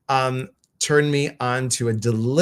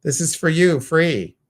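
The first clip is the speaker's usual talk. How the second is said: high, loud and fast; excited announcement; 6 semitones higher, 6 dB louder than usual. Real, not acted. Host telling the caller she won, high, loud and fast. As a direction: burst out with the good news.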